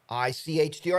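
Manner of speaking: the magic-mirror lady spotting you; TV hostess voice. Retold or imitated. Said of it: "And she'd go".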